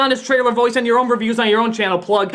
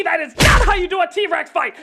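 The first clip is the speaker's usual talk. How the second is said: scolding; 5 semitones higher than usual. Acted. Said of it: "grabs them by the ear and says".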